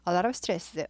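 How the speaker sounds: slow, careful reading of an English example; teacher reading a model sentence slowly. Shown as a demonstration. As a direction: read it out word by word, slowly. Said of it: "순서 잘 나온 거예요".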